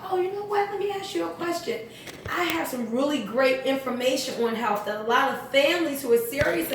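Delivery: a light, gentle pitch lift on the opener, then easy and friendly. Shown as a demonstration. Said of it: "And you just gently say".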